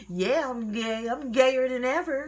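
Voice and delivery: loud, high, laughing mock confession; joking declaration. Child jokingly coming out to mom, laughing mock boast. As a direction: blurt it gleefully between laughs. Joke answer between laughs.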